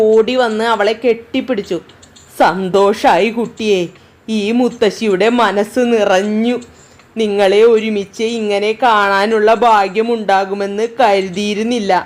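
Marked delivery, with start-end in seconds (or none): 2.4-11.9 lightly voiced grandma welcoming them; tearful grandmother. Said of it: "മുത്തശ്ശി കണ്ണ് നിറച്ചുകൊണ്ട് പറഞ്ഞു".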